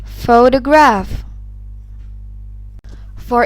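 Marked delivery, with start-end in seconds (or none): 0.0-1.2 photograph said slowly, first syllable punched; slow, emphatic PHOtograph with a strong opening syllable; syllable stress. Shown as a demonstration. Teacher demonstrating stress in "photograph", slowly stressing PHO. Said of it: "louder, longer, and higher in pitch".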